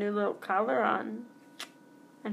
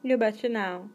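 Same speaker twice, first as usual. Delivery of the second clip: lightly put-on Idaho accent on a folksy catchphrase; a touch of rural Idaho twang. Podcaster mimicking fifties slang, mild Idaho accent. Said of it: "Why do I have to say that like I'm from".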